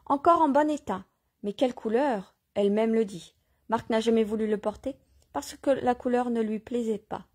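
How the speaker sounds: measured reading aloud with light dialogue; story narration. Acted. Reader telling listeners of Joachim, story narration. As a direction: read the tale out, lightly voicing questions.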